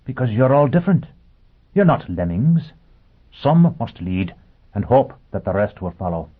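high, earnest robot voice; a machine preaching with conviction. Acted. Robot lecturing Foyle.

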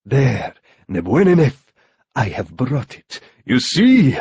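villain's triumphant presentation, in character; victorious. A narrator's reading. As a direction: savour the victory, rising at the end. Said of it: "his voice full of victory".

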